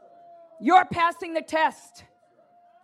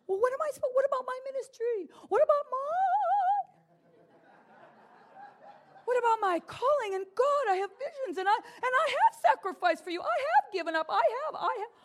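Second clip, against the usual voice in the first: high, softer pleading whine; mock whining; 8 semitones higher, 5 dB quieter, much faster than usual. Preacher mimicking a believer worried about his ministry, mock whining. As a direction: imitate a self-pitying believer's protest.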